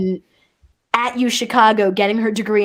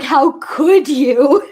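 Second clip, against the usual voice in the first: drawn-out, mock-wounded "how could you"; imitated reproach; 4 dB louder, much slower than usual. Host imitating wife's look after she heard the video, reproachful. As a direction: stretch it out like a dismayed accusation. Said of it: "She gave me this look like".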